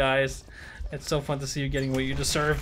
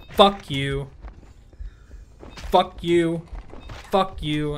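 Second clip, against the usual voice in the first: loud, punchy repeated curse; angry cursing; 4 dB louder, much slower than usual. Real, not acted. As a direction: spit it out each time, louder.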